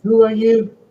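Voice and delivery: high-pitched flustered stammer; startled princess. Acted. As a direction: stammer in alarm as a bewildered princess. Princess answers mysterious voice.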